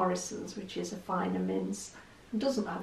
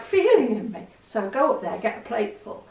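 usual speaking voice

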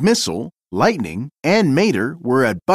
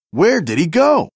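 a mildly raised alarmed call; as a race car losing sight of the thief; crying out; 4 semitones higher than usual. Acted. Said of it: "cried Lightning".

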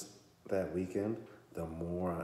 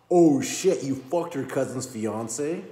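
shocked; 8 semitones higher, 14 dB louder, slower than usual. Real, not acted. Shocked reaction to the book's confession.

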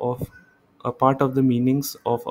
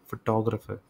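फोटोग्राफर as fo-TAW-gruh-fer, softer; stress on second syllable; 5 dB quieter, much faster than usual. Shown as a demonstration. Teacher repeating the example after explaining, stress on TAW. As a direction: softly mark TAW in फोटोग्राफर. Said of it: "इस syllable पे ज़्यादा stress दिया".

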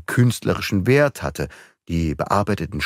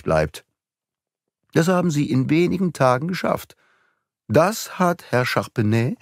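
put-on raised, deliberate young sleuth voice; young detective, triumphant; 3 semitones higher than usual. A bright, pointed young investigator. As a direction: Beautrelet lays out the forgery to the count, relishing it. Beautrelet explains the fake statues.

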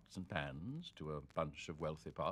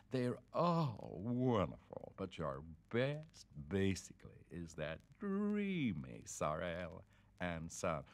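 gushing fan wife; slower than usual. Acted. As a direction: swoon over the famous author.

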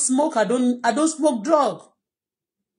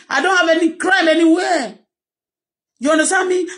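loud, higher indignant protest, really upset; indignant shout; 6 semitones higher, 4 dB louder than usual. Real, not acted. Woman online insisting on her innocence, shouting indignantly. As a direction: shout out your innocence, hurt and angry.

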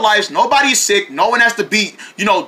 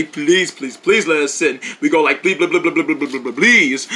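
mock begging; 6 semitones lower than usual. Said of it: "we beg them to say".

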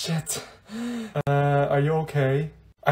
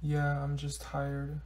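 slow and much softer, droopy; mopey sad; 2 semitones lower, 11 dB quieter, much slower than usual. Acted. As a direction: drag each word like nothing matters. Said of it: "She looks so sad".

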